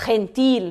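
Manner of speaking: "gentil" opened with throat friction, slowly; throaty Spanish G. Shown as a demonstration. Teacher showing G before E, slow throaty G. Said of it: "com o G".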